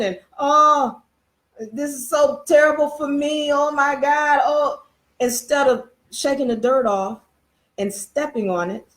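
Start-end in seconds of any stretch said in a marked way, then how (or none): 0.4-4.8 mock moaning donkey. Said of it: "sit there and die and cry and moan".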